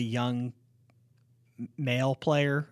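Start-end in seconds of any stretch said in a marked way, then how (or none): 1.6-2.7 hesitate, then set "male player" apart; halting "male player". Real, not acted. Host qualifies which young players he means, halting on "male player". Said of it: "That sounded so weird".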